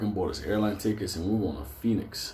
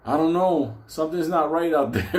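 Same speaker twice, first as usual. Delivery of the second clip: spooked insistence; 6 semitones higher, 4 dB louder than usual. Retold or imitated. Acts out Benny spooked by outside.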